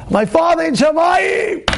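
screaming. Retold or imitated. Man on the phone proclaiming his heavenly Father, high slow scream. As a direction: belt it out like a believer proclaiming. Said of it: "He starts screaming".

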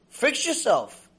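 playing someone who is fed up; acted scolding order. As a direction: draw out a mock exasperated order. Acted order to angry person.

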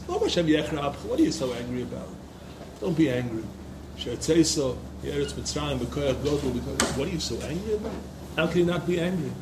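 low, soft imploring; hushed pleading. Acted. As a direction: plead quietly with God. Moshe pleads with angry Hashem.

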